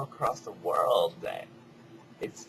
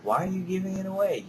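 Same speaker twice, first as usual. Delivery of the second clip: high, fast, louder disbelief; incredulous critic; 9 semitones higher, 4 dB louder, faster than usual. Retold or imitated. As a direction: play the doubter. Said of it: "And people would say".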